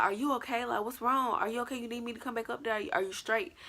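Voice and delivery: worried friend. Retold or imitated. Friend offers to come back up, lightly voiced concern.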